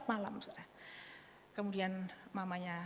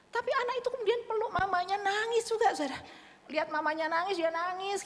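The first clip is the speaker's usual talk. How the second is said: higher and louder, deeply moved; moved storytelling; 11 semitones higher, 4 dB louder than usual. Real, not acted. Telling emotional climax.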